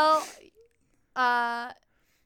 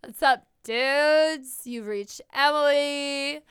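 slacker dude voice; 2 semitones higher, 4 dB louder than usual. Pretend. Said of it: "mock rude voicemail".

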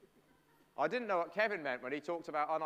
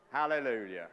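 lower, ringing hallelujah; joyful group hallelujah; 3 semitones lower, 5 dB louder than usual. Acted. Preacher leading the children in a loud hallelujah. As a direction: lead the room in one big hallelujah.

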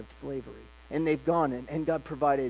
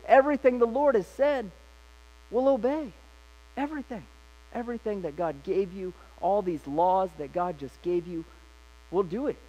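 eager pledge; 4 semitones higher than usual. Retold or imitated. People pledging eager obedience.

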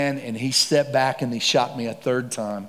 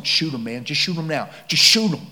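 urging to shoot; 2 semitones higher than usual. Retold or imitated. Robber's partner urging shooting.

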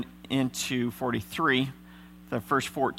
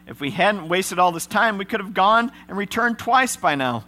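a lightly raised, urgent plea; earnest Judah; 5 semitones higher, 3 dB louder than usual. Acted. Judah pledging himself to his father, urgent. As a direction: step up and take the blame. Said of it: "Judah said to his father".

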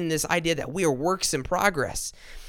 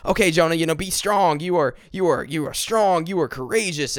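pep talk to self; 3 semitones higher, 3 dB louder than usual. Retold or imitated. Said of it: "think positive".

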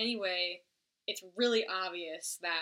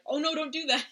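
laughing mock alarm; 7 semitones higher, 6 dB louder, faster than usual. Jimmy protesting, laughing.

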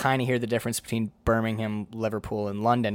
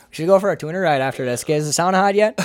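put-on Yooper accent; 4 semitones higher, 4 dB louder, faster than usual. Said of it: "turn straight back into fucking Yooper land".

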